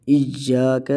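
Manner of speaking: "ایا" with the y held and pressed; held double y. Shown as a demonstration. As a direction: dwell on the y of "ایا" before the long a. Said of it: "ذرا ٹھہر کر ادا کیا جاتا ہے". ("ایا" ٹھہر کر، سختی کے ساتھ)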